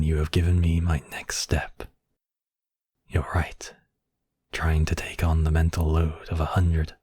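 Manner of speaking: whispered, thinking aloud; scheming whisper. Acted. Villain plotting over the captive mage, scheming whisper. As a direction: breathe the plan out in a whisper.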